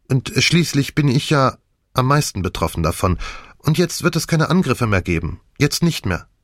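a hint of a pleading figure; lightly voiced Nick, pleading. Nick argues for silence to Poirot, lightly pleading.

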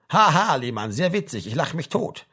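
dry, sarcastic ha-ha with a punched start; sarcastic mock laugh. Sergeant answers the soldier's excuse, sarcastic. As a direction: scoff at a poor joke.

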